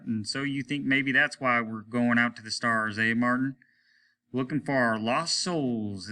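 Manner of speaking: lightly voiced reflective captain; thoughtful captain. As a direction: think aloud to Martin. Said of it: "Captain Hart was thoughtful".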